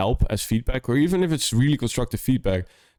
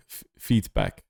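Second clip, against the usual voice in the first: mock deep feedback; 12 semitones lower than usual. Mimicking how Brooks says feedback.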